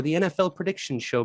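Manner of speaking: "the N F L prediction show" in a put-on English accent; mock English accent on the show title. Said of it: "that accent sucked".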